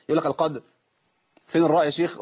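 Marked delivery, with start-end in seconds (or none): 0.3-0.6 "القدر" ending at the dal, no ra; ra cut off. Retold or imitated. Teacher imitating common mistake, "القدر" with its ra gone. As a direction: chop the final ra off "القدر". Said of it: "في ناس كتير بتقطعها خالص".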